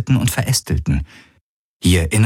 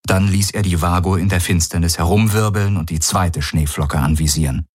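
ordinary delivery, nothing marked

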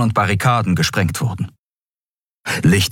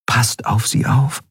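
slow, higher-pitched plea; pleading; 5 semitones higher, slower than usual. A narrator's reading. Nelen asks the spirits to protect the departed, pleading. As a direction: draw it out as a prayer. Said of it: "flehte Nelen".

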